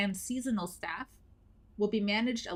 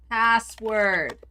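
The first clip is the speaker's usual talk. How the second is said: yelling; 6 dB louder than usual. Pretend. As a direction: shout it at the screen. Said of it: "Yelling at it didn't help".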